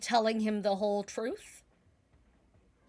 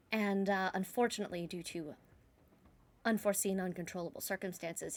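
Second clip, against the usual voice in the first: composed, deferential formal address; calm, polite decorum. Acted. Siren addresses the prince as her superior, calm and polite. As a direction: speak politely to a superior, softening at the end. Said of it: "calm, polite, put together".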